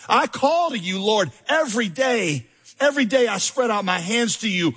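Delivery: preacher reading a lament psalm, rising in force; impassioned scripture reading. Acted. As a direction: read the psalm as a cry to God.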